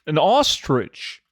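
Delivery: ostrich drawn out slowly in a British way; slow mock British; slow British attempt. Shown as a demonstration. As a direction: carefully sound out an ostrich British-style. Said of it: "I'm trying to say it like you guys in the U K".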